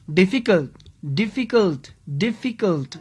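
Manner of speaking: difficult pronounced carefully with its three beats audible; syllables sounded out. Shown as a demonstration. Teacher counting syllables aloud, difficult sounded out beat by beat. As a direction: say difficult as dif, fi, cult. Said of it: "three syllable".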